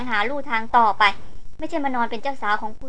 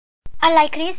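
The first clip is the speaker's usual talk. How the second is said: quick, urgent question, slightly higher; ถามเร็วทันควัน; 4 semitones higher, 4 dB louder, much slower than usual. A narrator's reading. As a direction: fire the question out, voice lifted. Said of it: "เขาถามเร็วปรือ". (ถามสวนทันทีอย่างร้อนรน)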